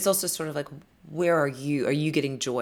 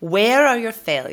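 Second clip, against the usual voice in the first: loud, higher, slow mock demand; mock interrogation; 6 semitones higher, 9 dB louder, slower than usual. Host pretending to grill successful guests, mock demanding. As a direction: grill them with drawn-out, hammed-up force.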